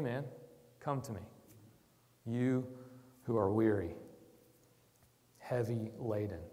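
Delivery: kind invitation. Retold or imitated. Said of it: "you hear the kind words of Jesus".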